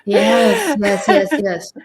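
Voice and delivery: high-pitched laughing "yes"; laughing agreement. Real, not acted. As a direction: agree through a burst of laughter. Laughing at the other's shower habits.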